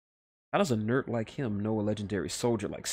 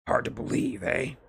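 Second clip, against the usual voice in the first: gruff Snake voice; 10 semitones higher than usual. Acted. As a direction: growl it like a weary old soldier.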